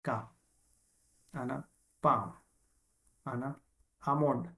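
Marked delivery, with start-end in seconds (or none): 4.0-4.5 આમોન્ડ with no L, long A into M; silent L. Shown as a demonstration. Teacher showing students how almond is spoken, silent L. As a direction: say આમોન્ડ, dropping the L. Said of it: "શું બોલાશે?".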